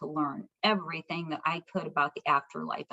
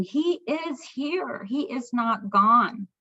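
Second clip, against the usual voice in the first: slow, wondering, higher then settling; awed realization; 5 semitones higher, much slower than usual. Retold or imitated. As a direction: say it slowly, like a revelation. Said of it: "I'm thinking".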